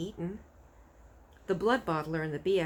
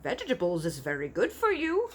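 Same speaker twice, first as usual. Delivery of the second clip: louder, mildly persuasive giant; lightly voiced friendly giant; 4 dB louder than usual. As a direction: coax him like sound advice. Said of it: "he went on".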